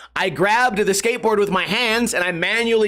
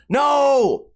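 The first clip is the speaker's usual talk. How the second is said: shouted no; 4 semitones higher than usual. Real, not acted. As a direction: bark the word down. Angry rant at commenters.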